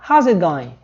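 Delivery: "How's" said as a single syllable; "How's it going" linked up, contracted; contracted form. Shown as a demonstration. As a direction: merge "How" and "is" into "How's". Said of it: "ó, na forma contraída".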